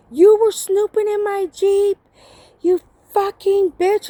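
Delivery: high-pitched mock outrage; acted angry accusation, pitched well up; retold accusation. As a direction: imitate an indignant man hurling blame. Acts out his accusation in the quarrel.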